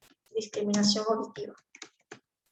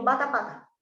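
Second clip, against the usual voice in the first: covered mouth. Shown as a demonstration. Therapist showing the screen trick, muffled behind a hand. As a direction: speak the pair through your covered mouth. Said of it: "y me tapo la boca".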